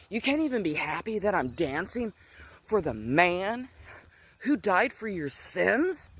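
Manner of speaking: mock-indignant comeback; incredulous retort. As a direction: act out exasperation, slowing down to press the point. Acted exasperated retort to mom.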